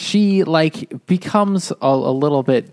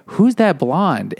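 drawn-out, higher-pitched, curious question; imitated intrigued audience; 5 semitones higher, slower than usual. Audience ignoring the main woman, imitated intrigue. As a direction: play a moviegoer who is suddenly intrigued. Audience reaction voiced once more.

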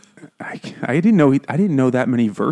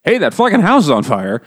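blunt shout; 7 semitones higher, 6 dB louder than usual. Retold or imitated. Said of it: "you can't be like".

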